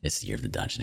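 breathy whispered echo of the line. Acted. Repeated hype line whispered.

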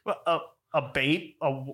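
imitating a confused, halting question; baffled stammer. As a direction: stumble over it in mock bewilderment. Acting out the baffled rider.

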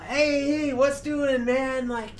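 mock a cheery Canadian greeting in a bad Canadian accent. Retelling Canadian band greeting the glum band, mock Canadian accent. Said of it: "Is that your best Canadian accent?".

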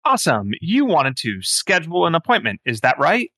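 lilting phone-menu AI voice; sing-song scheduling bot. Acted. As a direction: play a basic automated answering system. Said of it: "very low-level A I that's like".

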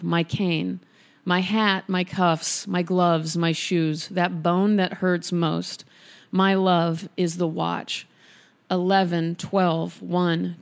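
measured, even poetry reading with a lingering pause between images; poem reading. Acted. Reads a surreal poem aloud.

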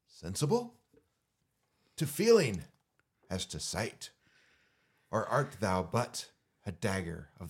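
halting, paused Shakespeare reading; long pauses between phrases; theatrical dagger speech with pauses; dramatic reading. Shown as a demonstration. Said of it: "way better than Barry's".

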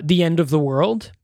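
ordinary talk, nothing marked

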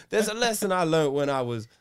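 a hint of a Southern accent on Clint; mock Southern accent. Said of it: "I made him Southern".

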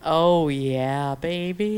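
drawled Southern hillbilly come-on; hillbilly accent. Shown as a demonstration. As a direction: show off the hillbilly accent on request. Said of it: "Do that accent again".

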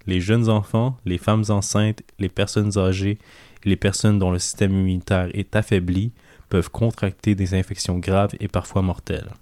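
deep, captivating radio announcer voice. Shown as a demonstration. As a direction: read it like a hypnotic late-night radio host. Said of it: "ma voix la plus, euh, grave et, euh, envoûtante".

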